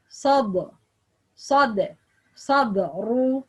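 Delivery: sad, sad, sadru built up piece by piece; broken into syllables. Shown as a demonstration. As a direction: separate the parts: sad, then sadru. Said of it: "separated every letter".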